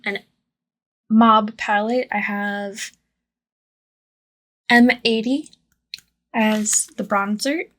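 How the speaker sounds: lisping. Real, not acted. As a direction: lisp on every s sound. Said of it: "I'm so sorry for the lisping".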